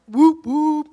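loud whooping cheer; loud call of encouragement. Real, not acted. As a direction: whoop it up to rally the room. Cheering on a raised hand.

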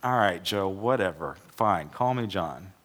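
mock weary "fine, whatever"; grudging, drawn-out surrender; resigned sigh. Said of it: "He's like".

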